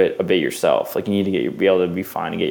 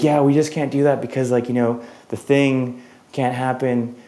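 higher, sing-song fake apology; mock excuse; 5 semitones higher than usual. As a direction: parody their polite brush-off, higher. Mocking crew's fake excuses.

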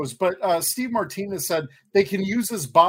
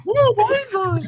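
a lightly voiced monster cry; Turkinator monster voice. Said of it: "Weren't you Turkinator?".

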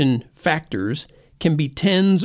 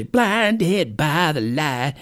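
British accent; much slower than usual. Shown as a demonstration. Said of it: "You have to say it with a British accent".

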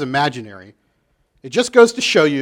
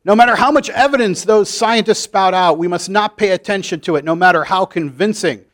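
hammering each demand at the congregation; preacher Reverend Jeremiah. Acted. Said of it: "Reverend Jeremiah".

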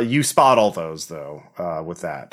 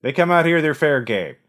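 higher, lightly gravelly villain arguing; a hint of a smug killer; 6 semitones higher than usual. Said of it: "a gravelly voice".

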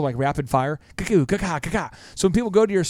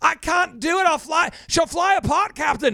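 much higher, strained cry of a panicking engineer; panicky Scotty; 13 semitones higher than usual. Retold or imitated. Scotty protesting to the captain, high frantic voice. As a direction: whine it like he's straining to lift something heavy. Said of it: "Scotty was always freaking out".

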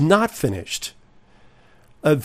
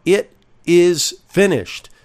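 raised, ringing declaration; cried out in victory; 4 semitones higher than usual. Shown as a demonstration. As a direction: lift it up as a triumphant cry. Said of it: "Rather, he cried out".

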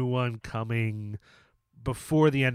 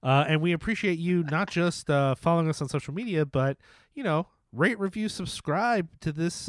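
pitch man voice; 3 semitones higher than usual. Acted. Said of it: "I love when you go into your pitch man voice".

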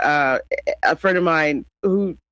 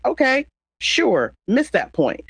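drawn-out, higher-pitched dismissive "okay, sure"; 6 semitones higher, slower than usual. Retold or imitated. Brushing off people who got hung up on the show, dismissive. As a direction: let them be wrong, slowly and pointedly.

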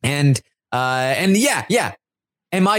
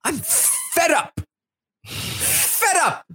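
slow, soft, fed-up sigh of a line; drained and done with it; exasperated; 12 semitones higher, 5 dB quieter, much slower than usual. Retold or imitated. Michael in the diary room, fed up and exasperated. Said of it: "the rant".

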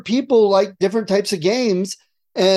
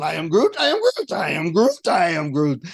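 repeated non-answers; 3 dB quieter than usual. Acted. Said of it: "I'm just going".

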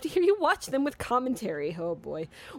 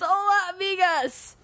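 reading a letter; 8 semitones higher, 4 dB louder, slower than usual. Retold or imitated. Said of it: "I have another tale for you".

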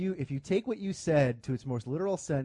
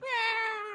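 shrill screeching bird woman; 4 dB quieter than usual. Retold or imitated. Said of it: "screech for us".

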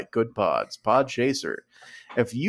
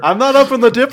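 talking through a laugh; words broken by laughter; 11 semitones higher, 8 dB louder, much faster than usual. Real, not acted.

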